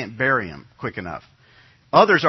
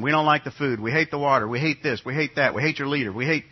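whiny grumbling people, imitated; mock complaining. Preacher mimicking the grumbling Israelites. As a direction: sneer out each "We hate" like a complainer. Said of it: "They complained about God's provision".

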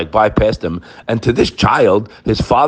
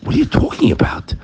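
high, breathy incredulous retort; high unvoiced disbelieving retort; Hashem's retort; 12 semitones higher than usual. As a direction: scoff it like God dismissing a silly question. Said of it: "Hashem says".

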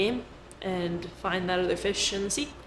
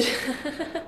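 a quick real laugh, pitched up; a bright little burst of laughter; short laugh; 8 semitones higher, 6 dB quieter than usual. Real, not acted. Laughs mid-sentence while explaining.

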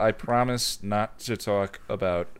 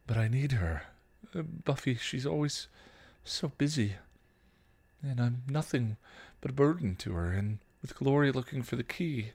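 put-on teen Dawn; 3 semitones higher, 4 dB quieter than usual. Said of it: "Dawn's voice, higher".

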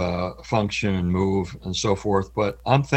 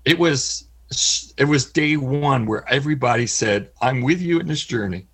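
voice cracking; 4 semitones higher than usual. Real, not acted. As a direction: voice cracking with emotion. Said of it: "if the voice cracks".

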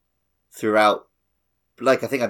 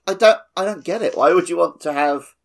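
mock Aonuma puzzled; 5 semitones higher than usual. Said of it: "he's like".

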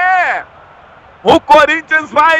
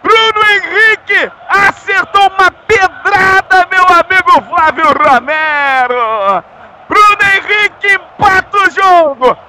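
explosive goal commentary; 2 semitones higher than usual. Real, not acted. Goal scorer celebration.

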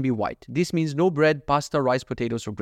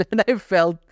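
laughing; 6 semitones higher, 5 dB louder than usual. Real, not acted. Laughs at own embarrassment.

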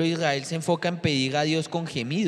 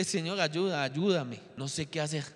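soft broken plea; 7 dB quieter than usual. Retold or imitated. Retelling crying on the bus.

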